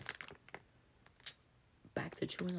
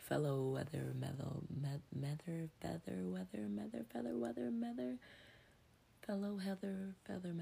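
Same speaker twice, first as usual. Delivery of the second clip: talking through a mouthful; chewing while talking; slower than usual. Real, not acted. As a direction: chew while you speak. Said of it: "Excuse me while I chew".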